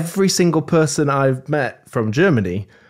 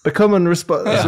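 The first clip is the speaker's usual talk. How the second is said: bad German accent with a French tinge; accent gone French; 3 semitones higher than usual. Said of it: "It's went a bit French".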